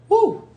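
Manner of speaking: high breathy woo to steady herself; emotional woo. Real, not acted. Remembering her dying sister, a high emotional woo. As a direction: let out a high woo, overwhelmed.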